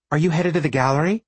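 a little breathless and fast; asking while slightly winded; out of breath. Acted. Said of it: "a little out of breath".

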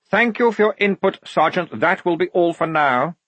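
high, officious cut-off; curt dismissal. Acted. Lieutenant cutting off his sergeant, curtly polite. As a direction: shut the objection down politely.

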